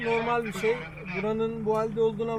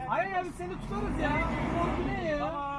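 excited teasing; 7 semitones higher than usual. Real, not acted. Teasing driver stuck off-road.

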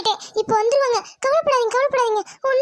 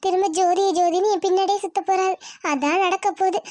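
gloating taunt; 3 semitones lower than usual. Acted. Villain gloats over crying wife.

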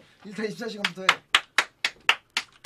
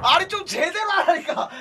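loud laughing yell; laughing shout; 8 semitones higher, 6 dB louder than usual. Real, not acted. (웃으며 소리치기)

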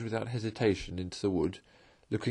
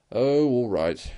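good-natured; 6 dB louder, slower than usual. A narrator's reading. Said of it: "said the good-natured rat".

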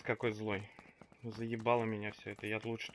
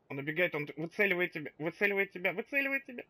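warning that climbs ever higher; rising alarm; 4 semitones higher, faster than usual. Real, not acted. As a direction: build the warning to panic. Warning teammate of flanking enemy.

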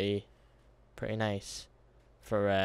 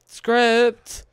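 loud shout; 12 semitones higher, 12 dB louder than usual. Real, not acted. Sudden shout at game.

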